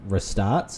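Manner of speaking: restarts said with a short, reduced first syllable; restarts, drawn out with a weak first vowel; odd pronunciation. Real, not acted. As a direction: say restarts as ruh-STARTS. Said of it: "I said restart".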